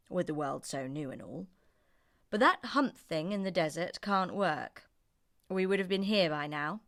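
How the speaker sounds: lightly voiced man addressing animals; a hint of a sorry master; man apologising to horse, dog and ox.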